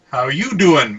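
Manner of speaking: half-hearted attempt at a Brooklyn accent; bad Brooklyn accent. Podcaster reading a listener's email aloud, weak mock Brooklyn accent. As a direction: try Brooklyn and barely get there. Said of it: "in my best Brooklyn accent".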